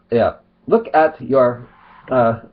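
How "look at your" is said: slow, lightly put-on Arab accent; mock Arab accent. Vlogger rereading his opponent's message, mock Arab accent. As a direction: mimic a generic Arab accent, drawn out. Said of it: "Arab accent".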